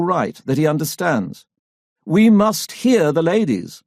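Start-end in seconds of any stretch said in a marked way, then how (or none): 2.0-3.8 higher, slow and gracious. A narrator's reading. Politician soothes the men at the meeting, slow and gracious. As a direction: graciously give way to the ladies. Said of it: "he says graciously".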